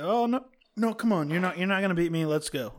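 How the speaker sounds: put-on cocky little kid. Dad voicing his six-year-old who's sure he'll win, a light cocky kid voice. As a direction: lightly play the boastful kid who won't back down.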